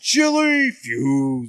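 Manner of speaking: slow, drawn-out mock hero call; mock announcer. To his cohost about chili fusion, a slow mock announcement. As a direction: stretch it out like a cartoon fusion cry.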